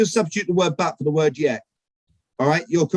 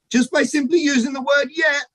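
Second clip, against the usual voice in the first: emphatic shout; 8 semitones higher than usual. Real, not acted. Stage speaker punching key word.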